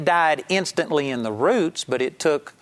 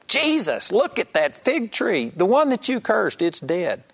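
much higher, astonished cry; shocked; 6 semitones higher than usual. Retold or imitated. Peter to Jesus at the dead fig tree, astounded and much higher. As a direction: blurt it out in sheer astonishment. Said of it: "I believe he was shocked".

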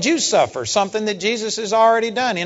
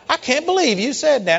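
shocked man; 7 semitones higher than usual. Retold or imitated. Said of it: "this guy was just shocked".

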